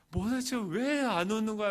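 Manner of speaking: retold nagging complaint; annoyed demand. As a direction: demand it down the phone, fed up. Acted annoyed phone call to wife.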